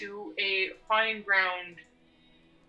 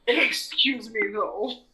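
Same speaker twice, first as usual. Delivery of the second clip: snippy sarcastic challenge; sassy; 4 semitones higher, 5 dB louder, slower than usual. Acted. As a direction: cut him off with attitude. Character snaps at villain.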